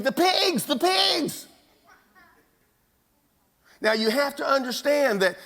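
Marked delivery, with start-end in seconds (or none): 0.0-1.5 much higher and louder, a frantic cry; screaming pig herder, hammed up in the telling; panicked scream. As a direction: yell it like a terrified herder running to town. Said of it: "the pig herder goes screaming back to town saying".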